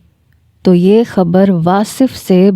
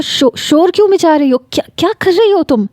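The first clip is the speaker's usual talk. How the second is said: rattled and stammering, pitched up high; flustered; 9 semitones higher than usual. Acted. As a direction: caught off guard, trip over the words. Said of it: "وہ ایک دم بوکھلا کے رہ گیا".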